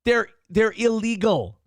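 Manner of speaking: high, loud furious retort; loud exasperated scolding; angry rant. Real, not acted. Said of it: "angry rebuttal".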